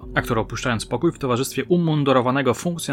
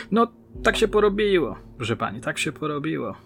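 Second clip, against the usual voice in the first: sighed; 4 semitones higher than usual. Acted. Actor admits his fate to the detective, mild resigned sigh. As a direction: let it go with a touch of a sigh. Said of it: "westchnął Damerski".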